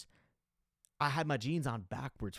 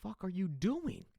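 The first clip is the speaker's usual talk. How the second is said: higher-pitched mock sister scolding; imitating sister; 7 semitones higher than usual. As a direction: play the annoyed sister demanding answers. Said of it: "She's like".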